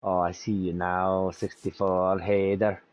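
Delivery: lightly voiced Irish brogue; a hint of an Irish pub regular; Irish accent. Friends joking, mild Irish accent greeting. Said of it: "that was a decent Irish accent".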